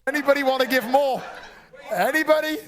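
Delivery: running the bidding like a lightly played auctioneer. Host taking bids from the room and online, in a mock auctioneer voice. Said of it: "He's got a great voice".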